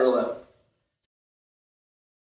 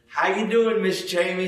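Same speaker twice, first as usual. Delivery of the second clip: put-on West Virginia accent; 3 semitones higher than usual. Preacher mimicking school friend greeting his wife, light West Virginia accent. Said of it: "he had a good old West Virginia accent".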